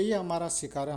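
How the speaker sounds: death's messengers, loud and fierce; claiming messengers. Acted. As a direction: stake the claim loudly. Yama's messengers claim the soul.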